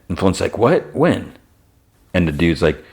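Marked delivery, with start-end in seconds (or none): 0.6-1.3 sharp jump up in pitch, stunned; startled questions, each higher than the last; shocked. Retold or imitated. Flint hearing Jimmy Addison is dead, shocked and much higher.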